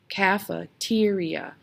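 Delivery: "Cafeteria" said slowly, leaning on TE; slow cafe-TE-ria, weight on the third syllable; stress on third syllable. Shown as a demonstration. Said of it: "we stress that one".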